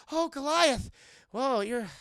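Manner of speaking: high, loud lovestruck gushing; imitated smitten woman; mock swooning. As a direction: gush in a high, hammed-up swoon. Elisa swooning over Goliath.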